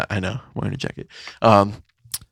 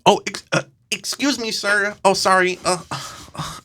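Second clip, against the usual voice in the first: high, fumbling polite excuse me, sir; mock timid guy; 7 semitones higher, 4 dB quieter than usual. Imitating the guy walking by, high and timid. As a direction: stammer like a nervous man squeezing past. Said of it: "And he's like".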